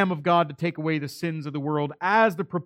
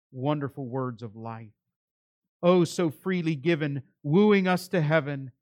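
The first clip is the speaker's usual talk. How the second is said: recited hymn. Acted. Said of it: "that old hymn by Philip Bliss".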